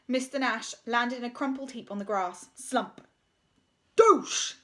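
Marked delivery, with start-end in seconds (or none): 4.0-4.5 loud, higher exclamation; gleeful loud cry; exclaiming. A narrator's reading. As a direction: shout it in triumph. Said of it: "exclaimed Bulk".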